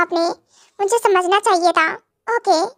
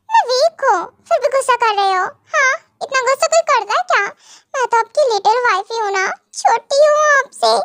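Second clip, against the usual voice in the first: higher, whiny sulking wife; pouty complaint; 4 semitones higher than usual. Acted. Wife pouting at her husband for scolding her. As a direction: pout and plead to be babied.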